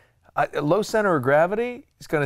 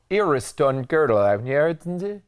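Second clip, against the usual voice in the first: English-backwards gibberish in mock Norwegian. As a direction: imitate Norwegian with nonsense words. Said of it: "It always sounded like the language is, like, English backwards".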